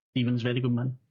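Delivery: put-on "Stephen's a very good man" in a light French accent. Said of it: "I kept doing the accent there".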